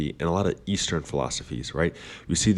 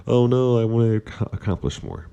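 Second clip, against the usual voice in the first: mock panic; 6 semitones higher, 4 dB louder than usual. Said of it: "I'm like".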